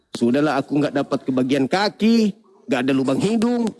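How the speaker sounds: lightly voiced low snake; low-pitched mock grievance; snake complaining. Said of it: "Datang ular".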